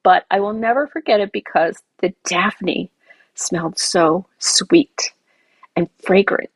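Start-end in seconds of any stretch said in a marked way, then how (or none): 3.4-6.5 whispered. Real, not acted. Savouring a scent memory.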